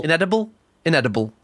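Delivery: inedible in a Geordie accent. Shown as a demonstration. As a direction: try inedible with Geordie vowels. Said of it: "That's hard to say in a Geordie accent".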